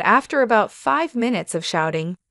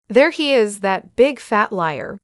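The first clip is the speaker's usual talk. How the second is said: shouting. Retold or imitated. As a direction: call him out to the whole street. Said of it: "they shouted".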